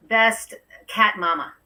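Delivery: real amusement spilling into laughter; laughing. Real, not acted. Host reading a gift glass to the guest, laughing. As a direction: laugh breaking out at the end. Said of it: "I'm laughing".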